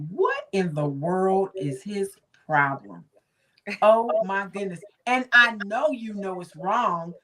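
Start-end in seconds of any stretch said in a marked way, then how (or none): 0.1-3.0 incredulous. Retold or imitated. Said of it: "I was like".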